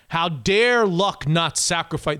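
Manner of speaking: slow mock outrage; sarcastic. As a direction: drag it out sarcastically. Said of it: "this is sarcastic".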